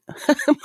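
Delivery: quick high-pitched giggle. Real, not acted. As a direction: break into a little giggle. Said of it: "why am I laughing?".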